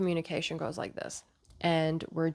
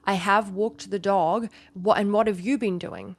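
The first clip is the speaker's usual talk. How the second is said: defensive, raised and pushed louder; defensive retort; 3 semitones higher, 5 dB louder than usual. Acted. Partner listing chores in a quarrel, defensive. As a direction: throw it back as an accusing comeback.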